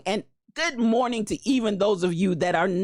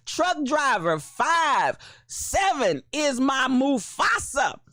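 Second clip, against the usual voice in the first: hype shout; 3 semitones higher, slower than usual. Real, not acted. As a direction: call the name out like an announcer. Hyping up a viewer's arrival.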